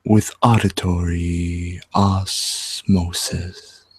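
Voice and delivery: slow, soothing radio host; relaxing. Acted. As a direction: ease them downstream gently. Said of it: "something relaxing".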